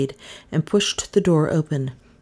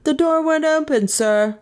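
higher, simple plain reply; simple constable; 12 semitones higher than usual. A narrator's reading. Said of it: "said the man quite simply".

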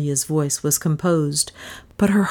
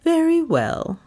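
bright; 12 semitones higher than usual. Acted. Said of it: "said Miss Cornelia brightly".

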